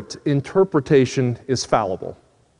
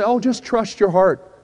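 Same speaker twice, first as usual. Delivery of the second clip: higher, slow mock well-meaning advice; drawn-out, higher-pitched quote of common advice; imitating people's advice; 4 semitones higher, slower than usual. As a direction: mimic people handing out easy advice, pitched up. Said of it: "ever heard people say".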